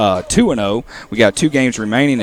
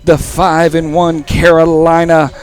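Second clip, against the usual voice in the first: wrestling voice; 2 semitones higher than usual. Acted. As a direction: boom it out like a wrestling promo. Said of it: "I was trying to channel my wrestling voice there for a second".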